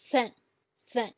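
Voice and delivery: "thank" as a first tone, high and level; high flat tone. Shown as a demonstration. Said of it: "equivalent to your first Chinese tone".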